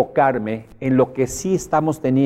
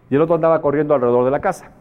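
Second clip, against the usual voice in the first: usual speaking voice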